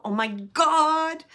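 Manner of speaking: high, slow, loud gasp of amazement; gasping oh my God. Pretend. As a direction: act out the stunned moment of recognising a sign. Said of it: "You're gonna go".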